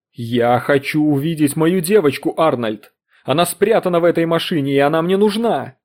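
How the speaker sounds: loud furious demand; a mother's raging demand; enraged fury. Acted. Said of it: "разъярённую фурию". (разъярённо и громко)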